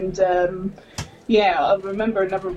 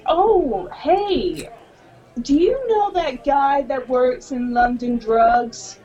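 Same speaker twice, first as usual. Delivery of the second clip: imitating a chatty customer; 2 semitones higher, much slower than usual. Retelling a Canadian lady asking about a British guy, slow and chatty. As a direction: draw the question out sweetly. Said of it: "she goes".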